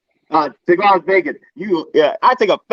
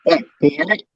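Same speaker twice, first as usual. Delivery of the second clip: muffled, boxed-in bad mic sound; like talking from inside a cardboard box. Real, not acted. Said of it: "Sounds like you're talking from inside a box".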